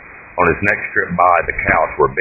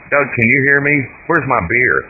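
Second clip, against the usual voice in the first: calling out; 9 semitones higher than usual. Acted. Grandmother calling from the other room.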